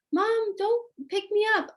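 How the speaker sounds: put-on high, whiny little girl protesting; whiny kid voice. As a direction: play the five-year-old refusing to be carried. Child protests being picked up.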